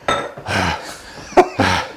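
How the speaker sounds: long weary exhale; tired sigh. Real, not acted. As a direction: sigh out the fatigue. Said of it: "I'm out of breath".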